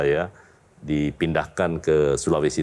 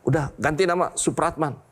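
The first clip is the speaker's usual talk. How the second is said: father's words retold; 10 semitones higher than usual. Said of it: "Bapak saya waktu itu bilang".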